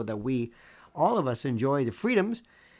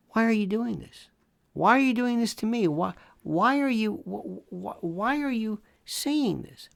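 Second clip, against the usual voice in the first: mock whine; 7 semitones higher than usual. Mocking whiny pronoun critics.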